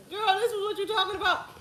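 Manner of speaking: high, loud disbelief; incredulous. Retold or imitated. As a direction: squeal it in disbelief. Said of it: "I'd be like".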